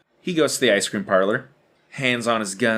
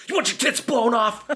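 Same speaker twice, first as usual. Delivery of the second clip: put-on higher, cocky gunslinger kid; cocky kid cowboy; 10 semitones higher than usual. Johnny pointing his guns at the ice cream lady, cocky. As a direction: threaten like a pint-sized outlaw. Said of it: "and he says".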